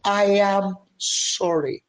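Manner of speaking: fervent prayer said for them to copy; model prayer. Shown as a demonstration. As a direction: show them how to beg the Father. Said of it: "I want you to go before your father".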